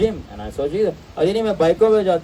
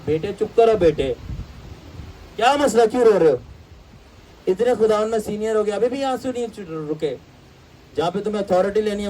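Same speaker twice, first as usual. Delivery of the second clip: mock servant scolding; 2 semitones higher than usual. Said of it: "फिर आगे से कुछ खादिम".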